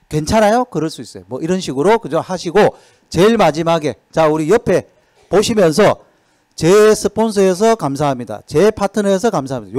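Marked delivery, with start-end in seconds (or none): 0.1-0.6 a higher, brighter caring ask; caring question. Shown as a demonstration. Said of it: "이런 말들을 많이 하셔야 돼요". 6.5-9.7 sincere thanks, a little higher and louder; grateful thanks. Shown as a demonstration. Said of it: "요거 한번 서로 해보겠습니다".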